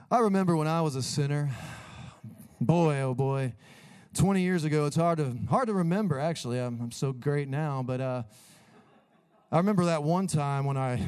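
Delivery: hammed-up self-admiring pastor; arrogant pastor parody. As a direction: play the proud preacher forgetting his sins. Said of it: "When you hear people talk like this".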